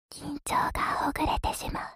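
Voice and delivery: breathy whisper into the ear. Acted. Same phrase earlier voiced.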